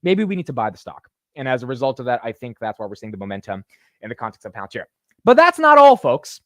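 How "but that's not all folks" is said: much higher and louder, a showman's tease; hype announcer. Real, not acted. Vlogger teasing viewers with more news, hyped showman call. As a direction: punch it like a TV pitchman. Hyping next item.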